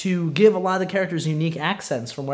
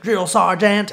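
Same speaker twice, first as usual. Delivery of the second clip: Gump voice; 4 semitones higher, 6 dB louder, slower than usual. Retold or imitated. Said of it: "every other time you hear him".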